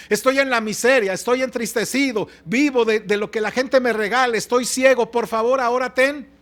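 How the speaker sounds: acted plea building to a stronger final cry; blind beggar's plea. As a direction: plead as a wretched man begging for mercy. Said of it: "Escuche lo que está diciendo este hombre".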